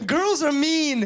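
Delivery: loud, high, slow complaint; shouting. Real, not acted. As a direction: belt out the grievance. Punchline yelled out.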